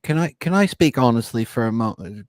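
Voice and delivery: a hammed-up, bad Australian accent; terrible Australian accent. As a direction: butcher an Australian accent asking to speak honestly. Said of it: "That's a terrible, terrible Australian accent".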